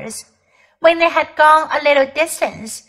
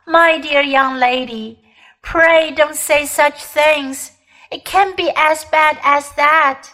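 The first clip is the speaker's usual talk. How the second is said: put-on babbling old man. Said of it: "babbled Uncle Andrew".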